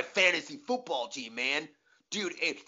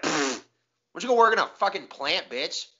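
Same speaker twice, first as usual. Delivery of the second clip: fast, louder scoffing sneer; contemptuous scoff; 4 semitones higher, 5 dB louder than usual. Retold or imitated. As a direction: brush him off with contempt. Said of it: "And they're like".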